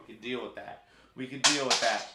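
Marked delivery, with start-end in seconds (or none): 1.2-2.1 relieved. Real, not acted. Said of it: "It's a four".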